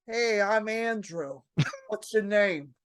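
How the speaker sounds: slow, casual introduction; lightly voiced cool guy leaning on a counter; Andrew. Comic introducing himself to the new waitress, slow and casual. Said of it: "he leans on the counter, and he goes".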